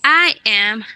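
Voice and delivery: slow, careful reading for students; slow, deliberate teacher reading; slow model reading. Shown as a demonstration. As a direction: read it slowly so they can follow.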